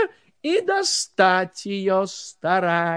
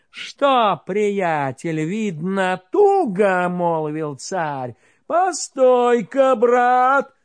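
mocking tsar; 4 dB louder, slower than usual. Tsar mocks caught Ivan.

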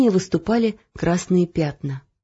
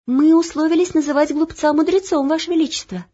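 higher, polite correction; lightly voiced page girl; 8 semitones higher than usual. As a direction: Olya correcting the king politely. Page Olya correcting king. (вежливо)

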